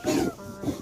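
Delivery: high mock dog voice; voicing the dog. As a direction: pitch way up and play the dog brushing it off. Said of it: "She's like".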